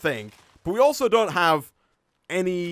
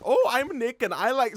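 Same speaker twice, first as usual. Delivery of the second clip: higher-pitched mock voice of a friend; Nick impression; 7 semitones higher than usual. Gamer mimicking Nick for viewers, higher mock voice. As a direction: put on a higher voice to mimic a co-host. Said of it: "or I'll impersonate Nick".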